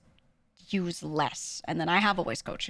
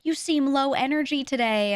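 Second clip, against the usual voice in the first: high, slow mock concern; pitched-up worried remark; 7 semitones higher, 4 dB louder than usual. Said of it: "people would be like".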